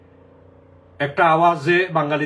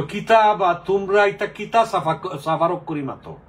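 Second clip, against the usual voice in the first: Shillong Sylheti mockery; 4 semitones higher than usual. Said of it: "আমাদেরকে নিয়ে ওরা হাসাহাসি করে".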